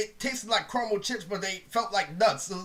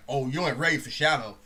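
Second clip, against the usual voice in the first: taunting friend; 6 semitones lower than usual. Retold or imitated. Friend taunting over video game.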